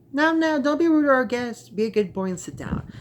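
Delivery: high, strained scolding sweetness; a scared mother keeping up appearances; tense bright warning to her son; forced polite mother. A narrator's reading. Frightened mother forcing politeness.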